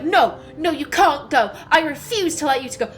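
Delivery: mum refusing, voice pushed up a little; retold shouting. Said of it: "she starts shouting at me".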